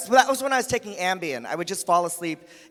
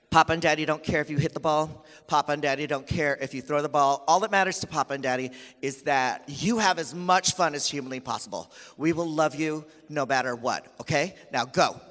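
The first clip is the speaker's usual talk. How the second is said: low, gentle pep talk; imitated tender fatherly encouragement; reassuring dad; 6 semitones lower, 3 dB quieter than usual. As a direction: reassure a small child before his turn. Father reassures son before tryout.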